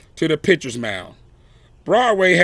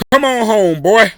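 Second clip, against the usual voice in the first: cheering crowd; 5 semitones higher, 5 dB louder than usual. A narrator's reading. Crowd cheering Josh home.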